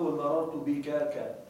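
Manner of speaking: مررت بك ك said slowly, ending in a lone ك; wrong doubled suffix. Shown as a demonstration. Teacher shows the wrong form to students: slow مررت بك ك. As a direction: drag out مررت بك ك, tacking on an extra ك. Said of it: "ولا تقل".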